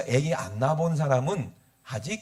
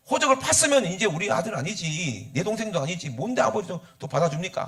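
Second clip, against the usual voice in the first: raised-pitch indignant objection; disgruntled elder son; 4 semitones higher than usual. Acted. Elder son disowns his brother to father, indignant. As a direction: protest to your father, put out. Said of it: "하면서 막 기분이 나쁜 거예요".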